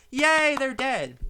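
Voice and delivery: slow, loud, sarcastic imitation of a cheer; mock cheer. Vlogger mocking liberals cheering a death, sarcastic slow yay. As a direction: mimic them gloating, dripping with scorn. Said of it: "they cheer on their death".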